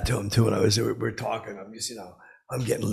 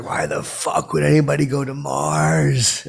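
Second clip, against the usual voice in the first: loud, slow, high retold outburst; hammed-up drunken rant about Mars; mock angry rant; 5 semitones higher, 6 dB louder, slower than usual. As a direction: bark the question out slowly, loud. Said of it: "I got, like, a little bit rough".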